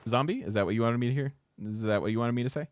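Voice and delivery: ordinary delivery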